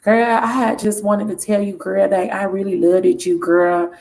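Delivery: lightly put-on man's voice; a hint of a man pleading with his girl. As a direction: read it as the apologetic man. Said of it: "gonna read it in his voice".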